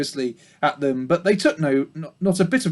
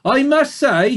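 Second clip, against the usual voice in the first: high, rustic country sheep voice; a chatty old ewe in a broad accent; 10 semitones higher, 5 dB louder than usual. A narrator's reading. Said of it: "she said".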